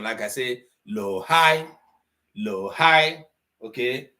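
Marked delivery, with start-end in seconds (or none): 0.9-3.2 "low" pitched down, "high" pitched up; sing-song step up from "low" to "high"; low-high tone pattern. Shown as a demonstration. Teacher showing learners tone notation, low-high tone pattern. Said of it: "song notation".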